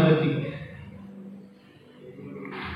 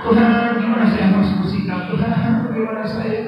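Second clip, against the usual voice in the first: long-winded prayer; 5 semitones higher than usual. Retold or imitated. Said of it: "Dia nggak doa".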